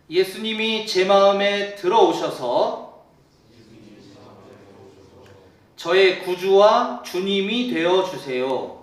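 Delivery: loud, slow prayer lead, phrase by phrase. Shown as a demonstration. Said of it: "제가 한마디씩 끊어서 기도할 때".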